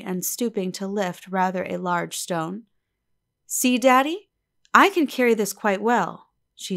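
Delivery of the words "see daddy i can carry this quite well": put-on proud girl. A narrator's reading. Eppie's girlish voice.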